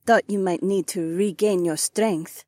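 high-voiced, knowing amusement; snickering. A narrator's reading. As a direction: tease slyly in a high voice. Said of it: "my Korean lover snickered".

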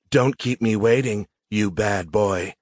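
slow, seductive purr; sultry tease. Acted. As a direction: tease him, slowly. Sex bot teasing seductively.

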